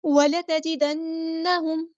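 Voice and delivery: وَلَتَجِدَنَّهُمْ with the نّ held in ghunna one alif long; slow tajweed reading of وَلَتَجِدَنَّهُمْ; Quranic recitation. Shown as a demonstration. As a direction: chant وَلَتَجِدَنَّهُمْ slowly, humming through the doubled نّ. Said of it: "غنہ زمانی کرتے ہیں".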